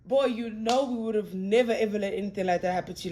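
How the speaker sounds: soft, choked-up plea after welling up; real emotional upset. Real, not acted. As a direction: say it softly, holding back real tears. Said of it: "I'm getting emotional right now".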